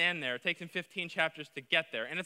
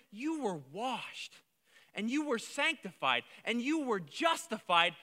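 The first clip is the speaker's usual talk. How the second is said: tender reassurance; 2 semitones higher than usual. Acted. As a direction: lay the words down gently. Quoting Paul's tender reminder.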